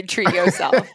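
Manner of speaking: imitating a voice assistant; mock Siri reading it out. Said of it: "You sound like Siri trying to say".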